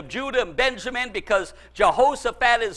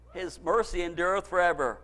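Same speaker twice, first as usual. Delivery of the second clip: hushed echo; 5 semitones lower, 9 dB quieter than usual. Acted. Quiet echo after shout.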